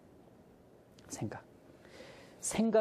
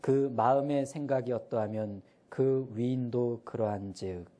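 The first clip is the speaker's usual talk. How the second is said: slow verse rereading; slower than usual. Shown as a demonstration. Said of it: "이 앞부분입니다".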